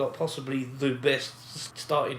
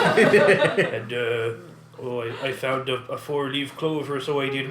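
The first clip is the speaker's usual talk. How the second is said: put-on Irish accent; 7 dB louder, slower than usual. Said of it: "It was not convincing".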